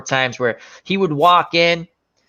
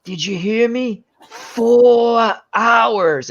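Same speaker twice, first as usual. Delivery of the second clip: higher, insistent mock salesman; hammed-up insistent dealer; pushy dealer; 6 semitones higher, much slower than usual. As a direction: press the point like a huckster. Dealer pushing the pill.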